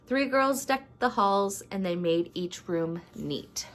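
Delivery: measured, rhyming storybook narration; story read-aloud. A narrator's reading. Vlogger reads a rhyming Christmas story to viewers, storybook narration. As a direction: read it like a holiday picture book.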